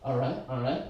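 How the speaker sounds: lightly voiced article checker, low; fussy reader character. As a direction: tick off each point under your breath. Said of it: "I'm making this character up".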